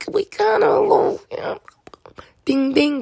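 unvoiced, conspiratorial whisper; whispered aside. Real, not acted. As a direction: let the listener in on a secret. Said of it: "whispered aside".

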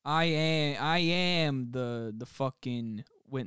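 put-on slow, half-hearted Italian-American mobster accent; lightly put-on Italian-American wiseguy. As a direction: slip into a mock Jersey Italian-American drawl. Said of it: "you ended up doing it anyway".

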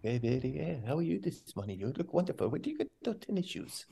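sweet-talking caddy. Retold or imitated. The speaker imitating Wallace sweet-talking his caddy Frenchie, soft fawning coo. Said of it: "He's like".

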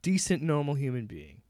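deliberate, pointed phrasing with pauses; measured, emphatic spelling-out; clear and simple. Real, not acted. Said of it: "to make it real simple".

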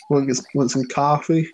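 put-on tentative New York accent on coffee; attempted New York accent. Co-host copying voice actor, attempted New York accent. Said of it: "the accent is gone now".

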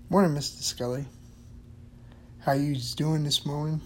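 put-on cheery older man saying good morning; old custodian voice.

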